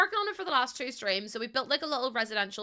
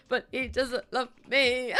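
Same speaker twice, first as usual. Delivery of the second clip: mock tearful whine; slower than usual. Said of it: "And I was like".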